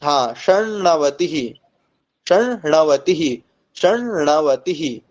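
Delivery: षण्णवतिः with a clear doubled retroflex ण्ण; careful pronunciation. Shown as a demonstration. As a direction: model षण्णवतिः for the class, ण्ण held. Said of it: "ऐसे उच्चारण करना है". (षण्णवतिः, ण्ण को दोहराकर साफ़ उच्चारण)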